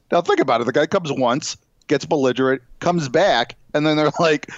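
ordinary talk, nothing marked

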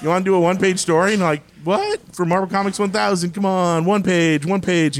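high, fast and eager; excited pleading. Retold or imitated. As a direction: pitch it like an eager kid. Retold pitching to artist.

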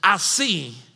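loud, slow, indignant question; scandalized outcry. Retold or imitated. Disciples asking why God joins a party, loud and slow. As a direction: drag out the outrage.

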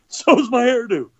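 high, laughing punchline about being bald. Retold or imitated. A speaker laughing through his bald joke at a school. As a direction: chuckle through the joke line.

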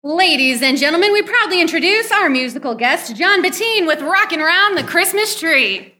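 showbiz announcer build-up; proud stage announcement; announcer intro. Acted. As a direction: introduce the act with a flourish. Host announces musical guest.

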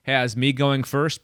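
winded, catching his breath. Real, not acted. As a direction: talk while still breathless. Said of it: "totally out of breath".

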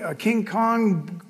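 ordinary delivery

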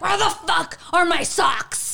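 mock exasperation. Acting out a bad day over lost socks, mock exasperation. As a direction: wail it in comic frustration.

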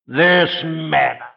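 slow, scornful stress on This; sneering "This manna," slowed right down; contempt. Shown as a demonstration. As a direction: drawl "This manna" with disdain. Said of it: "the note of contempt".

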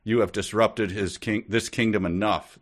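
a prince pressing his case, a touch heated; mildly angry. Acted. Prince accuses the visitor before the king, mildly angry. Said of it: "the king said angrily".

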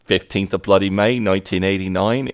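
put-on Aussie accent; lightly mimicked Australian accent. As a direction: imitate a bluffing Australian. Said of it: "slides into an Australian accent".

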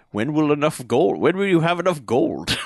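lightly put-on dragon impression; mock movie-star voice; Sean Connery. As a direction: ask it with a hint of the film-star dragon. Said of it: "Sean Connery Dragon is just like".

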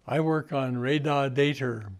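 put-on light Boston accent, R moved to data; quoting a coworker in a Boston accent. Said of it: "in a Boston accent".

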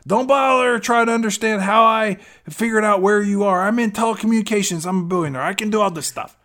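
insistent Christian impression. Billionaire calls right back after she hangs up, insistent. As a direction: play an over-eager, high-pitched suitor.

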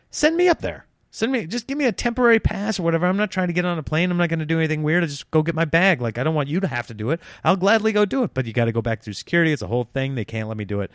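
high, fast rush of pleading thoughts; frantic inner plea. Retold or imitated. Inner frustration at the baggage desk.

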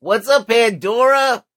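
high, drawn-out greeting; big shout-out. Pretend. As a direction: hail the listeners with a high, stretched call. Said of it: "Will you say hello to the Pandora people".

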